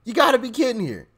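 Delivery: squeaky high laughing disbelief. Real, not acted. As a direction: laugh through the words in disbelief.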